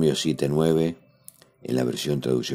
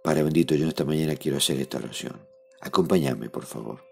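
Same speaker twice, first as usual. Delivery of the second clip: heartfelt prayer. Acted. Leads a spoken prayer.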